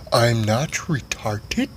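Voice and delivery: slow, soft, hurt; slow Skipper voice. Acted. Old Skipper defending himself, slow soft voice. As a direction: say it slowly and gently. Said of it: "Skipper answers".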